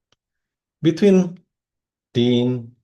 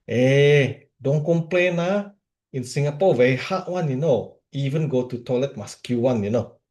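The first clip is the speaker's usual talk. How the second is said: put-on Singaporean accent, pitched up; Ferdinand; 4 semitones higher than usual. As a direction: imitate a Singlish friend dismissing complaints. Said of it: "Ferdinand is from Singapore".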